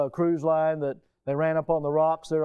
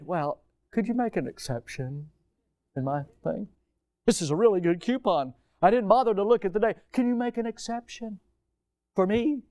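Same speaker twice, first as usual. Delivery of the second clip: pleading shopper. Retold or imitated. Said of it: "and we hand a coupon to the thing and say".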